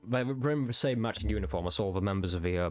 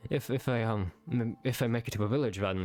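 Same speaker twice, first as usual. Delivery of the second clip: shocked; 3 semitones higher than usual. Acted. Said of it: "obviously just kind of shocked".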